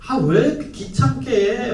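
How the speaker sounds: lightly acted high-pitched teenage whine; mock irritation at a pestering dad; annoyed son. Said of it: "막 이러겠죠". (귀찮아하는 아들 흉내)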